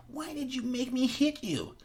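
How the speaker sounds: slow high crying voice; tearful Carl. Acted. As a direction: whimper the question through tears. Carl crying after hitting.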